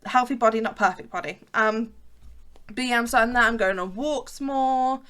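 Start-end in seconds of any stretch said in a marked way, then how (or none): 0.1-1.4 healthy stressed, then not leaned on; motto stress. Shown as a demonstration. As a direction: recite healthy body, not perfect body like a slogan. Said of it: "that's my motto".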